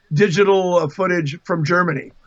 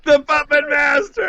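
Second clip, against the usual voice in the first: slow, loud mock-villain proclamation; 7 semitones higher, 4 dB louder, slower than usual. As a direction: announce it like a gloating puppet master, louder and higher. Mock villain title after teasing.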